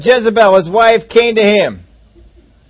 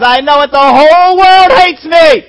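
slow, loud self-pitying groan of a sulking husband; mock moaning; 7 semitones higher, 9 dB louder than usual. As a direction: ham up the poor-me moan. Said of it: "moaning and groaning and griping and complaining".

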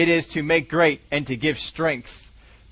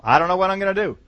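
mock hopeless whine; faster than usual. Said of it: "Isn't that my hope?".

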